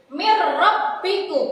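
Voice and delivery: Mir rabbikum with the r hummed through the nose; slow Mir rabbikum with a nasal hum before rabbikum; wrong nasal read. Shown as a demonstration. Teacher plays the wrong humming reading for pupils. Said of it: "Tidak boleh dibaca seperti ini".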